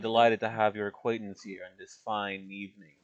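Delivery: a touch of an aristocrat's bow; formal courtier. Acted. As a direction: put on polished manners for the mayor. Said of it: "his demeanor completely changes".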